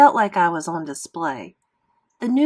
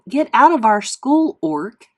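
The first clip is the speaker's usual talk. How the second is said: higher and louder nasty taunt; a bully's hammed-up sneer; mock hostile jeer; 4 semitones higher, 7 dB louder than usual. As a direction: shove the words at him. Bully's note read out.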